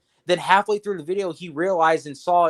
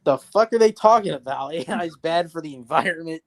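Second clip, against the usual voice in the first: imitating Mister Grizzly. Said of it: "even Mister Grizzly's like".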